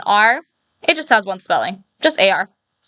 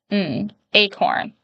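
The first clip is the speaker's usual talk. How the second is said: slow blending; 3 dB quieter, slower than usual. Shown as a demonstration. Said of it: "blending sounds into word".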